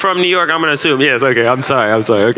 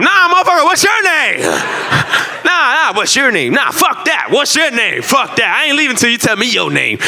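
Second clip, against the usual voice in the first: mock aggressive demand; 9 semitones higher than usual. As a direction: badger him for his name. Aggressive demand at yelling club.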